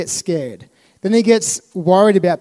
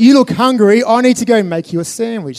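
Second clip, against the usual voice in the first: enthusiastic Pope; 4 semitones higher, 5 dB louder than usual. Retold or imitated. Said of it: "the Pope's like".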